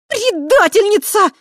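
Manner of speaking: very high, loud howl of betrayal. Acted. Tai howling at the traitor, very high and loud. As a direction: wail it out in fury. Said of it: "неожиданно взвыла Тай".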